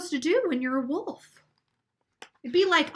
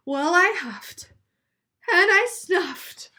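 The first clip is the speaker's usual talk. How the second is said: slow build-up; 6 semitones higher, 4 dB louder, slower than usual. Acted. Wolf building up a sneeze.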